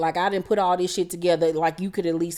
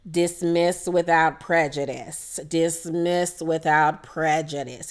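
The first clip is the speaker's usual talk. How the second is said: slow, deliberate slogan; 3 semitones lower, slower than usual. Retold or imitated. Erica's slogan to Lisa.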